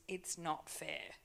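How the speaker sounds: soft, slow, hushed words set aside; quiet letting go. Shown as a demonstration. To the church, a quiet slow refusal of self-pity. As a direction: say it softly, refusing it. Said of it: "I'm not gonna use the words".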